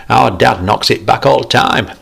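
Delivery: put-on child talking about dad; cheeky boy. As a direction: brag like a cheeky kid. Boy voiced in story.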